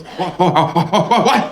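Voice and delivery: mock grandpa getting worked up; upset grandpa. Grandpa called a stalker, sputtering back in mock indignation. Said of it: "he gets upset, and he goes".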